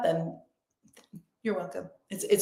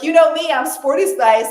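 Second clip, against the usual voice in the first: loud, higher, confident declaration; self-assured, raised-voice boast; empowered; 6 semitones higher, 8 dB louder than usual. Acted. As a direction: own it proudly and punch it out. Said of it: "if she loved it".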